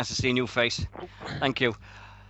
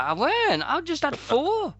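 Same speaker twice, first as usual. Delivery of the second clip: indignant denial; 14 semitones higher than usual. Retold or imitated. Drunk self denying.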